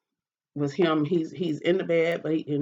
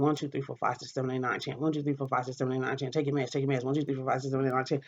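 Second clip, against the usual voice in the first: mocking quiet counting; 5 dB quieter, faster than usual. Boyfriend counting behind her to push the meds, quiet mock count. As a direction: count it softly and pointedly, a light mock of him. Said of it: "He's sitting behind me just counting".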